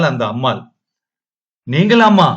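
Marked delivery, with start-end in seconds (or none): 1.7-2.3 higher, louder, breaking into sobs; sobbing cry of recognition. A narrator's reading. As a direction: cry out her name through tears. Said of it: "குமுறி குமுறி அழுதாள்". (விம்மி அழுதபடி கேட்கும் குரல்)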